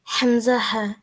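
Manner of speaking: হামজাহা from the bottom of the throat; demonstrating the letter. Shown as a demonstration. Student shows the teacher the throat letter. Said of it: "তুমি pronounce করো হামজাহা".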